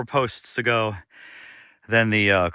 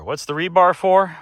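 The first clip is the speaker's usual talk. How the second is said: loud, higher exasperated question; 8 semitones higher, 6 dB louder than usual. Acted. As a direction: throw the question out in frustration. Repeats question, mock outraged.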